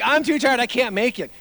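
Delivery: put-on high, loud whiny kid; mock whining. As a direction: imitate a child protesting he's worn out. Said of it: "All the whining and complaining".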